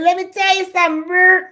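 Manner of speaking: high, fast, loud telling-off; mama scolding. Retold or imitated. Mama warning the neighbor woman, high loud telling-off. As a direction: lay into him like an angry mama. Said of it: "Mama said".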